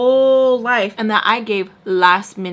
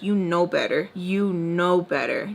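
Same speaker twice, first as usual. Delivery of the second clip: inner conscience voice; 3 semitones lower than usual. Retold or imitated. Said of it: "something will wake in my soul and bug me and be like".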